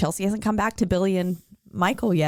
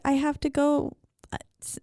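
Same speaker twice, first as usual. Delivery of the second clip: lightly voiced little girl; 3 semitones higher than usual. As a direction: answer innocently like a little kid. Retelling the little girl's answer.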